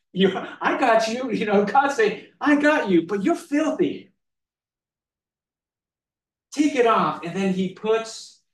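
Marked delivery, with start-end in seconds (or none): 0.1-7.2 God's firm command. Retold or imitated. God reassuring then commanding.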